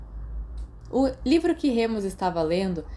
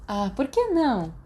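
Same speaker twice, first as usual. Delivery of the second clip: guincho agudo; 5 semitones higher than usual. A narrator's reading. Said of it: "Mary guinchou".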